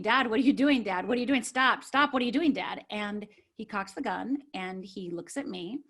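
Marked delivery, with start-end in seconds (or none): 0.0-2.8 urgent, raised retelling of a panicked plea; retold screaming. Daughter begging dad to stop, retold screaming. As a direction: plead in alarm, short of a real scream. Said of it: "I start screaming".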